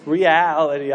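REALITY drawn out low, mocking oneself; imitating own odd delivery. Preacher poking fun at his slip, REALITY stretched out low. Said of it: "I don't know why I said it like that".

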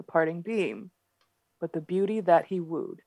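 reading in a soft Boston accent; quiet, careful Boston accent reading. Shown as a demonstration. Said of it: "do it with a Boston accent".

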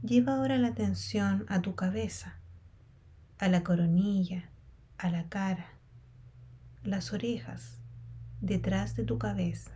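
unhurried meditation guide with long pauses; guided meditation. Real, not acted. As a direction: guide them calmly through a body scan, leaving space between phrases. Leads a body scan meditation.

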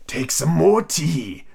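slow, drawn-out March Hare; drawling creature host; very earnest. Acted. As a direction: offer it with laboured earnestness. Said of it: "said to Alice very earnestly".

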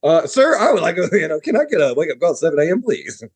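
hammed-up, high-starting Indian accent; polite request in a mock Indian accent; stereotype Indian accent. Caller asking the front desk for a wake-up call, stereotype Indian accent. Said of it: "I went complete stereotype".

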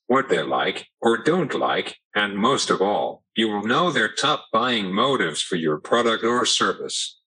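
synthetic text-to-speech voice; computer voice. Real, not acted. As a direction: speak like an AAC speech device. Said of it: "using a computer voice".

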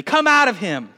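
Jesus rebukes the spirit, stern. A narrator's reading. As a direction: shut the spirit up firmly. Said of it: "said Jesus sternly".

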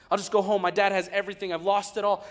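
the prodigal son, now sure; resolved son. Acted. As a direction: talk yourself into going home.

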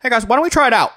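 light Trump voice; a hint of presidential Trump; Donald Trump impression. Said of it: "Is that your Donald Trump impression".

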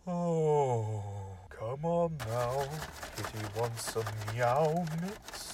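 low, slow sleazy coo; creepy coaxing voice. Acted. Host taunting the cat lady in a low creepy coo. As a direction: lure the kitty in low and slow.

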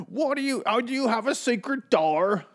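very high falsetto caricature of a woman; mock woman's voice. Wife asks husband about a secret door, silly falsetto. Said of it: "That's how women sound".

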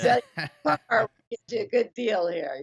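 mock car salesman. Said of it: "He was like a used car salesman".

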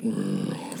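low, drawn-out slow-motion growl; imitated growl. Gang guys turning toward him in slow motion, low growl. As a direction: rumble it low, like slowed film.

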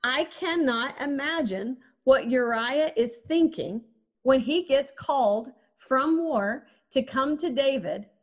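normal talking voice

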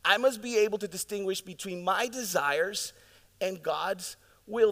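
measured restatement, easing off the force; slowed repeat. Real, not acted. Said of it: "This is so important, church".

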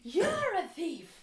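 loud, high, drawn-out mock-furious accusation; angry accusation. Retelling how she confronted the old man, angry as hell. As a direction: hurl the accusation, stretching it out loudly. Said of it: "angry as hell".

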